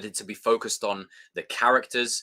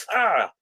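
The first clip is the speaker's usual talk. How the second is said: cringing cry; 6 semitones higher, 4 dB louder than usual. Retold or imitated. Cringe reaction after quote.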